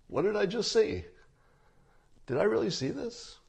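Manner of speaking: jaw on the floor, can't believe it; stunned disbelief. Retold or imitated. The speaker mimics conservative Twitter seeing the tweet, stunned. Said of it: "go something like this".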